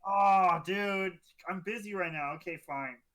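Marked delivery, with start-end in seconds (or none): 2.3-3.0 disappointed sigh. Acted. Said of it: "a disappointed sound".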